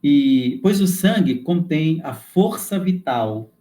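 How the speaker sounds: slow, deliberate reading aloud; measured, emphatic teaching delivery; formal text reading. Acted. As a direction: read it out slowly, weighting the key words. Reads lesson text with emphasis.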